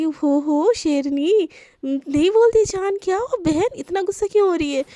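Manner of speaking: calm down a tigress, playfully; teasing mock awe. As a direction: friend playfully soothing an angry girl. Friend teases angry Divya.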